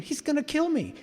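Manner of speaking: mock panic. Inner panic about meeting him.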